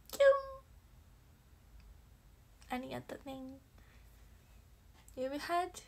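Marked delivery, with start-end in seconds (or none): 0.1-0.5 squealed kyun. Real, not acted. Reacts to a finger-heart gift.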